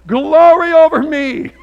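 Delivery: drawn out, high and mocking; sarcastic reading. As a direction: say it with a sarcastic sneer. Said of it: "I could read it sarcastically".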